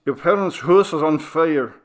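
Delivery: Doctor Flynn calling the son about the fire, alarmed; urgent doctor. Acted. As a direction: break the bad news fast. Doctor phones with urgent news.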